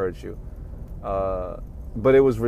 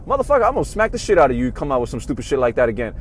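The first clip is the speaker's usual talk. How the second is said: imitating angry mom; 3 semitones higher, 4 dB louder, faster than usual. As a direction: rattle off a mother's angry threat. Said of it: "my mom would straight tell me".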